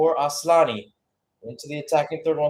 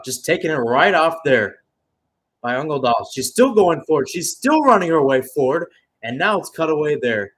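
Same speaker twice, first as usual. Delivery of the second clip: louder, rising call as she runs forward; excited play-by-play; 7 dB louder than usual. Real, not acted. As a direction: build the call with the run. Player breaks forward with ball.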